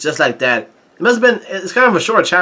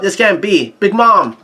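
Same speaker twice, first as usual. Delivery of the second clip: mild mock yell, raised pitch; higher-pitched, understated shout of alarm; Peros yelling in disbelief; 4 semitones higher than usual. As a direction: cry out in dismay without much volume. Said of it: "he yells out".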